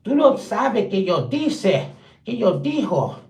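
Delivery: imitating Puerto Rican mom. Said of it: "My mama screams at me like".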